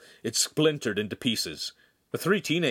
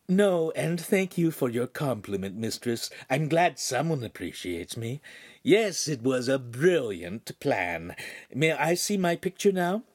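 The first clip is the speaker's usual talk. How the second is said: mannered imp, slowing with self-satisfaction; lightly voiced imp, pleased; 4 semitones higher than usual. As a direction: play a hint of a flattered imp. Voices Pan, the holographic imp.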